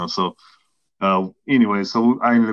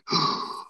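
deep breath; 6 dB quieter than usual. Retold or imitated. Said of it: "took a deep breath".

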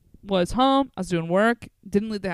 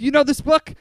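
louder, accusing call-out; mock accusing shout; 5 semitones higher, 5 dB louder than usual. Comic shouting at a lookalike audience member, accusing shout. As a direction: shout it like you caught her.

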